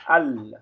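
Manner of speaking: slow, drawn-out Arabic recitation of lillahi; Arabic reading demo. Shown as a demonstration. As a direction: stretch each syllable of lillahi slowly. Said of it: "ça se dit comme ça".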